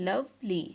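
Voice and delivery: LOVELY in two separate beats, love, ly; split into syllables. Shown as a demonstration. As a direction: break "lovely" after love. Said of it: "two syllable word".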